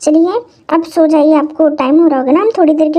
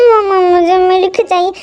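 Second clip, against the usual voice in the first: put-on crying child. Child keeps crying for milk.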